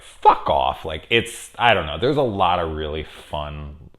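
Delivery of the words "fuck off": sudden louder mock yell; retold angry outburst. Girl telling off her friend's buddy, mock outburst.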